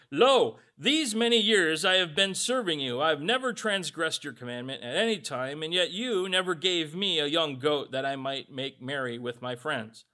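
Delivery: loud, resentful plea to his father; indignant complaint. Acted. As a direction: read it as the wronged son airing his grievance. Older brother's complaint read aloud.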